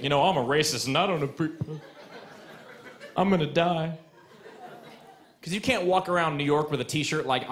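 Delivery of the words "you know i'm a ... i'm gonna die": mock racist heckler. Imagined racist in crowd.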